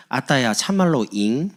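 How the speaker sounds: slow, loud Jeolla dialect. Acted. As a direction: imitate a Jeolla speaker with a drawn-out tail. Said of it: "전라도". (길게 끄는 전라도 사투리로)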